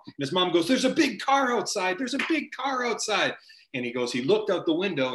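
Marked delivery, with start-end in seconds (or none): 0.7-3.3 very high-pitched, excited mom impression; acted excited mom. Mom tells her son about a car outside, acted excitement. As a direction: imitate an agitated mother, voice shooting way up.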